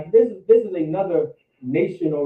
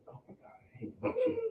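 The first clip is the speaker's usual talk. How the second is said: breathless, whispered disgust; pained whisper; 15 dB quieter, much faster than usual. Real, not acted. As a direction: whisper it like it hurts to say. Disgust at the word cheating.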